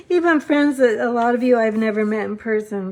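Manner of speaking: laughing through real tears, voice wet; fighting back tears while thanking friends; tearful laugh. Real, not acted. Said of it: "I'm trying not to cry".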